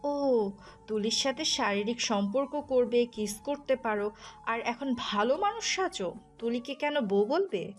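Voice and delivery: sarcastic, jealous tirade; wronged wife's scornful outburst; angry accusation. Acted. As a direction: accuse him with rising heat. Jealous wife accusing her husband.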